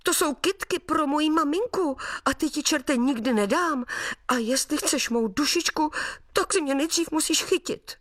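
hugging the flowers for mum, the little sprite defies the devil; little boy crying out. Acted. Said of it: "a vykřikl".

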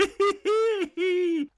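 very high woodland giggle; high sprite laugh. Acted. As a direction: chuckle like a sprite. Hejkal laughs.

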